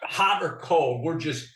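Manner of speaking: slow, lazy mock teen drawl; lightly voiced indifferent teenager; mock cool teens. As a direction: imitate bored, too-cool kids, slowly. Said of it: "the group is saying".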